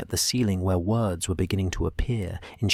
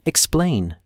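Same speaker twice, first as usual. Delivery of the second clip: commanding; 7 semitones higher than usual. A narrator's reading. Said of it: "she commanded".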